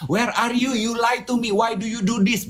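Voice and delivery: put-on high accusing girlfriend voice; girlfriend's angry questions. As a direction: play the suspicious partner, accusing. Retold angry girlfriend's texts.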